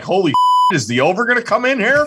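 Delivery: amazed exclamation. Retold or imitated. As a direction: blurt it out half-laughing. Fans amazed at flyover.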